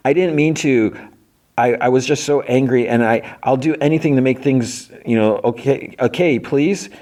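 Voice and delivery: high-pitched acted pleading; apologetic pleading. Fiona begging her friends after wrecking the place, pleading.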